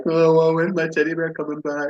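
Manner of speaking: mocking childlike voice. Mocking friend watching teddy spin.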